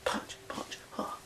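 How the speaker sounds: whispering punch, punch under the breath; quietly drilling moves at work; whispered drill. Retold or imitated. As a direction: mutter the drill softly to yourself. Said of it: "I'd be like".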